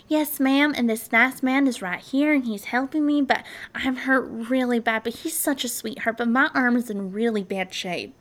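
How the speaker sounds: mock cheerful, lightly voiced; breezy, chipper caller brushing off the injury. Faking cheer to the operator while hurt, mildly cheerful. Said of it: "Jennifer responds all cheerful".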